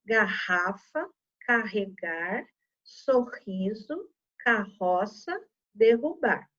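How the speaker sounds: slow word list with a strong guttural RR in "Garrafa, carregar, sorriso"; strong R sound. Shown as a demonstration. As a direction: read "carroça, derrubar" slowly, each RR as a strong H-like R. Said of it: "ele tem um som forte". (erre forte em "Garrafa, carregar, sorriso", lendo devagar)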